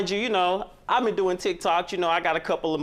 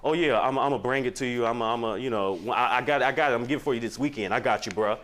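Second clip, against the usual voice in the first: brother's voice; 5 semitones lower than usual. Retold or imitated. Man mimicking his brother stalling on repayment, stammering lower voice. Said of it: "He was like".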